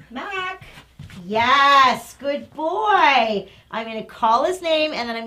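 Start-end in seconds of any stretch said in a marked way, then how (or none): 0.1-0.6 high bright call of "Mac"; calling the dog. Shown as a demonstration. Trainer calling her dog back from a greeting. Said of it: "I'm gonna say". 1.3-3.5 excited praise. Real, not acted. Trainer praising her dog for turning back.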